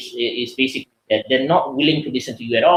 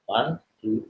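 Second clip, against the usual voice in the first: slow counting; 2 semitones lower, 6 dB quieter than usual. Shown as a demonstration. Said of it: "Start counting to three".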